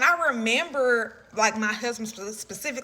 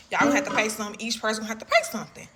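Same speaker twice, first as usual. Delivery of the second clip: lightly imitated Hispanic accent, quick; much faster than usual. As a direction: mimic the officer demanding a fee with a Hispanic accent. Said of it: "like, a Hispanic accent".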